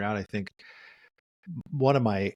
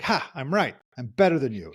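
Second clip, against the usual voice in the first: mock gloating; 2 semitones higher than usual. Therapist voices a partner who must be right, gloating. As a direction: lightly gloat as a smug winner.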